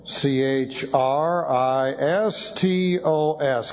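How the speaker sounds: "C H R I S T O S" spelled letter by letter, slow; spelling out letters. Shown as a demonstration. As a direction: dictate "C H R I S T O S" letter by letter.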